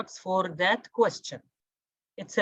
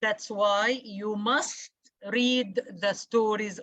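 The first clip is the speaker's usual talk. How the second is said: normal talking voice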